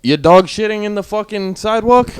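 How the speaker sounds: loud, high-pitched attempt at an accent, landing as Jewish; hammed-up, indignant Jewish accent; bad Jewish accent. Imagining confronting someone over a dog, bad Jewish accent. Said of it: "Why did you get Jewish all of a sudden?".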